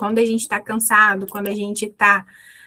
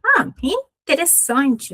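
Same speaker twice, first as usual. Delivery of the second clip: slow, intrigued reaction with pitch lifted; a slow, higher "oh, interesting"; acted interest; 4 semitones higher, slower than usual. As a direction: play being intrigued, drawing it out. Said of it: "A gente usa muito essa palavra".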